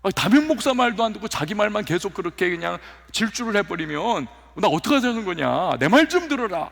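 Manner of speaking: exasperated mock rebuke to a talkative assistant; the pastor replaying how he scolded a colleague who talked over him; retold scolding. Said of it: "제가 막 야단을 칠 때".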